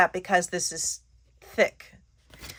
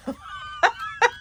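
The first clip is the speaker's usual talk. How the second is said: high laugh. Real, not acted. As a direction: burst of high-pitched laughter. Laughs at her own fumble.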